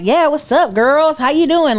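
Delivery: sassy waiter. Retold or imitated. Waiter greeting two friends at a restaurant, sassy. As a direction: imitate a waiter being sassy with the table. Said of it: "you doing some sassy stuff".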